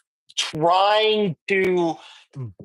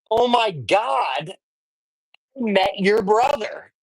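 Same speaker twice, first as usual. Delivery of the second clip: retold excited news; 3 semitones higher than usual. Telling the player's mom about her brother, excited. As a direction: retell it as a big exclamation.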